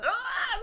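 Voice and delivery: high-pitched, contained mock scream; retold startled scream. Storyteller acting out her panic at the gun, mock scream. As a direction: cry out high without much volume.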